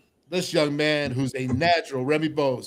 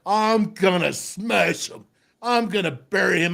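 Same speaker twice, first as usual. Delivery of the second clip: drawn-out, emphatic vow; mock-fierce rookie bravado; retold self-psyching; 2 semitones higher than usual. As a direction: psych yourself up for a big hit. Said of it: "And I'm like".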